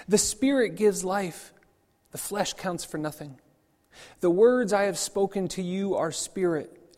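measured, solemn reading of the Gospel; scripture reading. Acted. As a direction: read the passage aloud to the congregation with gravity.

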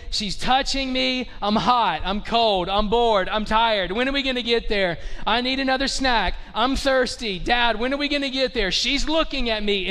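mock kids' complaints, one after another; complaining kids. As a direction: pile up the gripes like bored children. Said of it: "kids have been crying and complaining".

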